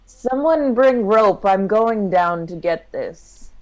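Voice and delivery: loud, drawn-out call for help; in-character yell. Acted. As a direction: call out to companions out of earshot. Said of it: "I yell out".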